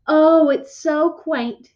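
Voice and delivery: excited mom, stretched-out cooing; really excited. A narrator's reading. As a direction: gush with delight, drawing it out. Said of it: "Mom was really excited".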